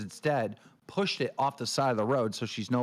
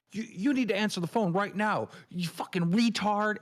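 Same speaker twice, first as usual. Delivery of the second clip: higher, frantic mock rant, slowing on the insult; 8 semitones higher than usual. Retelling Roxy yelling to answer the phone, mock frantic. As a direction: ham up a panicked caller.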